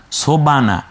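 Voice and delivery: সোবানা with o and no h; wrong pronunciation. Shown as a demonstration. Teacher shows the mistake students make, careless. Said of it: "বকে মনে হয় জবর দিয়ে ফেলেছে না".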